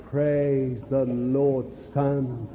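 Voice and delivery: put-on slow, low, soft words to a child; parent instructing. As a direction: gently teach your son.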